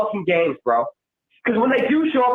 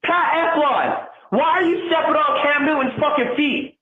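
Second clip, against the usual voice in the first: angry; 5 semitones higher than usual. Real, not acted. Caller blasting the offensive line, angry shouting. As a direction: yell at the linemen in disbelief. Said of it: "I'm so fucking angry".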